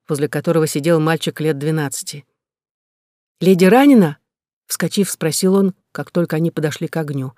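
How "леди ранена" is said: alarmed question. Acted. Boy jumps up alarmed.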